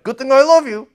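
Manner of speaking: lightly voiced God; playful God voice. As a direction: say it like a fond, exasperated husband. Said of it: "God's like".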